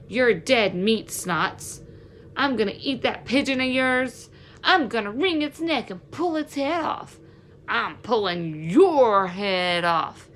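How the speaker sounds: taunting thug, drawn out slow at the end; menacing bully threat. Acted. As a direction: threaten him like a cruel street bully. Bullies threatening the fleeing boy.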